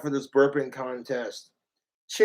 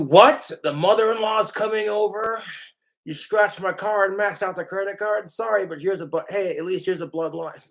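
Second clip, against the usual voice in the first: outraged husband; 4 semitones higher than usual. Acted. Husband yelling at girlfriend over the scratched car, disbelief. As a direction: sputter in outrage at the news.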